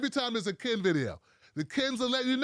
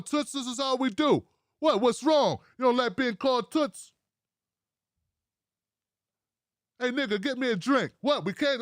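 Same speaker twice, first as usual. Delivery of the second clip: lightly voiced old-school chauvinist; mock old-school politician. Comedian mocking an old-school boss calling women Toots, lightly voiced impression. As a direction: play him baffled that anyone objects. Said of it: "That's how he sounds".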